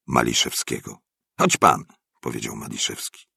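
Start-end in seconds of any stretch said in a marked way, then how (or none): 1.4-1.8 high, louder urging call; natarczywa zachęta. A narrator's reading. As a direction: urge the neighbour to come along, pitched up. Urging neighbour to come along. (podniesiona, ponaglająca zachęta)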